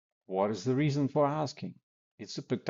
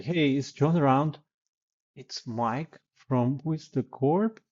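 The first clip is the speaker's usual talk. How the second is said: higher, slow formal intro with the company name; wrong way, over-explained; 5 semitones higher, slower than usual. Shown as a demonstration. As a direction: sound like a polite stranger asking permission. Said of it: "you don't talk like that".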